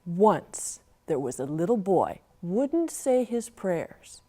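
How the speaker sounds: measured storytelling verse; folksy poem reading; poem recital. Acted. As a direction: recite the old rhyme for children.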